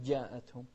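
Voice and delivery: جاءتهم begun with a loose "dy" sound; mistakenly palatalise the ج of جاءتهم; wrong jim. Shown as a demonstration. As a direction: demonstrate جاءتهم as "dyaa'at-hum". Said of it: "ولا تقول".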